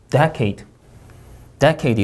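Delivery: "decade" with DEC stressed; DEC-ade, "decade" falling away; syllable stress. Shown as a demonstration. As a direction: lean on DEC at the front of "decade". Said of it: "이름절 강세".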